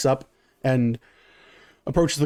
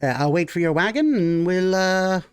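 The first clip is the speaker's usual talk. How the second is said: raised, eager gnome voice; a polite little merchant agreeing to the deal; gnome character voice; 5 semitones higher than usual. Acted. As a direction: gnome merchant accepting the offer of a ride, eager.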